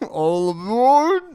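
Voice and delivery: slow, high, drawn-out pirate call; hammed-up pirate drawl; drunk pirate voice. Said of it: "like a drunk pirate".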